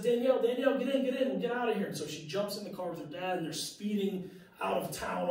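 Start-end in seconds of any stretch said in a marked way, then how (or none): 0.0-1.9 urgent dad calling. Retold or imitated.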